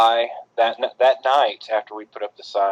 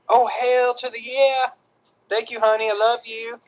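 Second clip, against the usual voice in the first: high-pitched delight; 12 semitones higher than usual. Real, not acted. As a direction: voice jumps up high with joy. Thanking girlfriend for chips.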